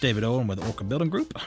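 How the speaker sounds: upbeat radio show welcome; radio announcer. Acted. Radio host returns from break.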